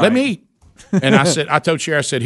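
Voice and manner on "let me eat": high pleading truck voice, a touch hammed-up; truck begging high. Husband voicing his hungry truck, pitched high and pleading. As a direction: make the pickup whine for fuel. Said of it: "the big Ram fifteen hundred is saying".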